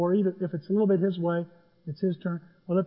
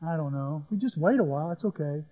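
quiet muttering; 3 semitones lower, 6 dB quieter than usual. Retold or imitated. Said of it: "we're saying to each other".

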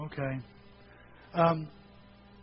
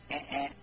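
hard drive noise; 3 semitones lower, 6 dB quieter than usual. Retold or imitated. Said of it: "my hard drive would go".

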